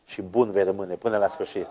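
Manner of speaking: usual speaking voice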